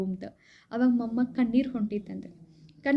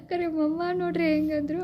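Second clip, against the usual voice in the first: laughing; 5 semitones higher than usual. Real, not acted. Still laughing after the joke.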